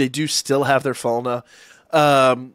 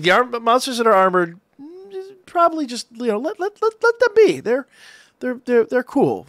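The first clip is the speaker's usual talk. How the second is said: lightly voiced, much higher and halting; hesitant Lily; 6 semitones higher than usual. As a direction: play her as fumbling for the right words to the monsters. Voicing Lily cautioning the Xenos.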